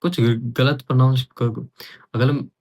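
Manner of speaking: real stumble, words tripping quickly; tongue-tied. Real, not acted. Learner asking about mispronunciations, tongue-tied and stumbling. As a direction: hurry and trip over the words. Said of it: "मैं क्यों तोतला बोलने लग गया?".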